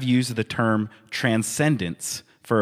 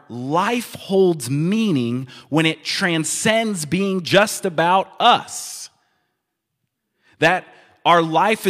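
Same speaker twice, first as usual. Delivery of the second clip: raised pitch, building sermon emphasis; impassioned preaching; 6 semitones higher, 3 dB louder than usual. Real, not acted. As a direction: drive the point home, higher and emphatic. Preacher drives home the main point.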